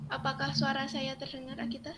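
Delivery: speaking up so the call hears; a firmer, fuller repeat of the question. Real, not acted. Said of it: "Ya, sudah bisa".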